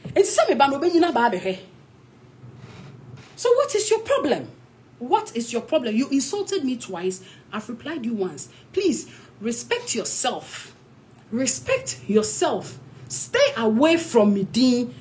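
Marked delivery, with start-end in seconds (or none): 3.4-14.9 slow, cold, measured put-down; stern rebuke. Real, not acted. Telling the man who insulted her to back off, slow and stern. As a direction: lay down the line, each word deliberate.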